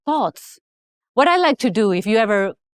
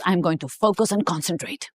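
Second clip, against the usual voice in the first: whispering as if to keep it quiet; whispered; 4 semitones lower, 5 dB quieter than usual. Retold or imitated. Whispering to husband she needs to focus. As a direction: breathe the line without voice.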